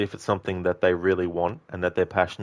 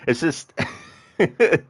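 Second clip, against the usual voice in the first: laughing through slow words, higher; 9 semitones higher, 3 dB louder, slower than usual. Real, not acted. Streamer laughing at own attempt. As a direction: giggle while talking.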